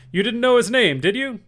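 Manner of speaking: loud, high menacing interrogation; very stern. A narrator's reading. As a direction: grill him hard. Silver interrogates Morgan.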